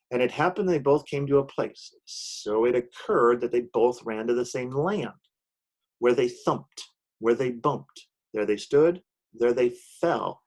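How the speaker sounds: rhythmic storybook read-aloud, each beat landing; poem reading. A narrator's reading. Teacher reading her rhyming poem to students, in a bouncy storybook voice. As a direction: read it like a Seuss book to the class.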